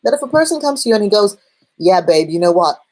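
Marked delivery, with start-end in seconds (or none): 1.8-2.8 brash, half-hearted Cockney bloke; lightly imitated Cockney lad; slightly Cockney accent. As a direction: put on a slight Cockney, playing a controlling boyfriend. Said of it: "a slightly Cockney British accent".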